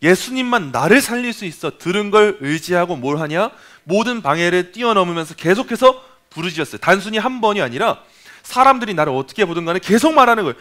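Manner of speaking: usual speaking voice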